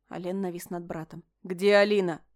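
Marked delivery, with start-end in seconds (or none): 1.4-2.2 a stern demand, louder; demanding question. Acted. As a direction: press him hard for the answer. Alen looming over brother.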